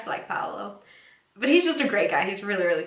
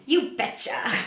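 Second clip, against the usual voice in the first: a touch higher mock Phoebe; imitating Phoebe; 5 semitones higher, slower than usual. Host voicing Phoebe answering Paolo, light mock Phoebe. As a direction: chirp it back casually. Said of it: "Phoebe responds with saying".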